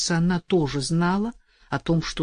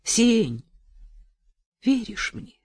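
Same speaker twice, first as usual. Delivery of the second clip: passionate vow. Acted. Vow to jailed lover.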